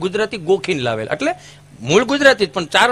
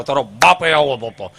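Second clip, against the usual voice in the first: 1 slow mock schoolmaster; 7 semitones lower, 4 dB louder than usual. Mocking old teacher.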